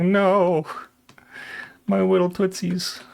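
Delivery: high, slow whiny wail; mock whine. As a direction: whimper over cold toes. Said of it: "I'm like".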